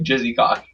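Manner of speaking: Jizzy Cock with "ih" for "eh" and no final s; Jizzy Cock, echoing how the name came across; imitated mishearing. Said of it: "sounded like Jizzy Cock".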